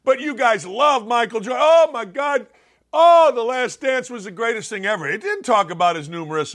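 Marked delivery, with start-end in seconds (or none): 1.6-5.1 mock fan gushing. Mocking fans of The Last Dance.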